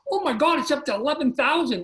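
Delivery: reliving the thrill; excited. Retold or imitated.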